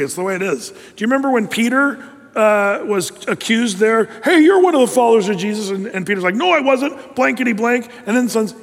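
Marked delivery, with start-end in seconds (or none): 4.2-5.7 quick, raised accusing call; mock accusation. Bystander accusing Peter of following Jesus, quick mock call-out. 6.4-7.9 higher-pitched, protesting denial; mock denial. Peter denying his accusers, high mock protest.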